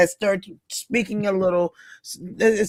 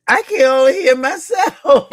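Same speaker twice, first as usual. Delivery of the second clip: laughing quote; 8 semitones higher, 3 dB louder than usual. Retold or imitated. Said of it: "She said".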